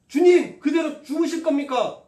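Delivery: loud, high frightened cry to the Lord; panicked disciples. Acted. Disciples in the storm crying out to Jesus, loud and panicked. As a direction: shout it in terror as the waves hit. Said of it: "라고 얘기를 하는 거예요".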